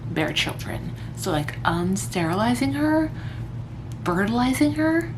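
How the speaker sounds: talking with a mouthguard in; wearing a mouthguard. Real, not acted. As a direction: mouthguard in, a bit muffled. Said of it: "I've got my mouth guard in".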